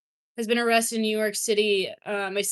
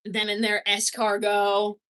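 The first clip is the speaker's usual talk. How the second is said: slow, hammed-up French accent on escargot; mock French accent; 2 semitones lower than usual. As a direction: drag out escargot like a cartoon Frenchman. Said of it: "gotta find the accent".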